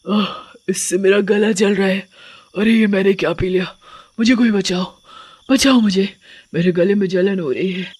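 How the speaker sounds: witch crying out in burning pain, understated; distressed witch. Acted. Witch poisoned by holy water begs for help, distressed. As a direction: plead for help as your throat burns. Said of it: "जोर जोर से चिल्लाने लगती है".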